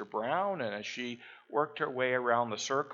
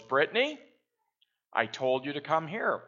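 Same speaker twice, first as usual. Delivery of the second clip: put-on calling out to child; 2 semitones higher, 3 dB louder than usual. Mom calls her daughter.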